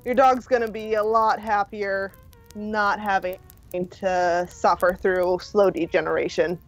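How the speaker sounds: level, halting consolation with frequent pauses; Alex. Acted. Rescuer consoling a woman who lost her dog, gently matter-of-fact.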